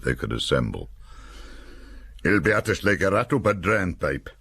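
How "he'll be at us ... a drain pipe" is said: lightly voiced gruff sergeant, northern English accent; a hint of a barking sergeant's northern English accent; sergeant in dialect. A narrator's reading. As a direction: soldier grumbling about the enemy, in a light northern English accent. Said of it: "said Sergeant Hutton".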